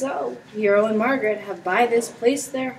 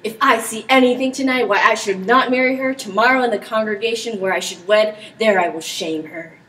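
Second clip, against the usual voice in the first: louder, bitter threat; angry vow; 5 dB louder than usual. Acted. Claudio vowing to shame Hero at the wedding, angry. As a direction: promise revenge through clenched resolve. Claudio vows public shaming.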